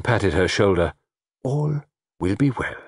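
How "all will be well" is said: reassuring. Acted. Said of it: "he assured her".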